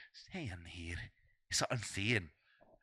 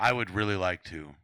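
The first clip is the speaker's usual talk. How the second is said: mock unenthusiastic; 5 semitones lower, 3 dB louder than usual. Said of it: "That sounded like you really wanted to".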